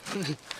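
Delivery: cowardly heel cackle; a quiet gloating laugh; gloating manager laugh. Acted. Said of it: "and I go".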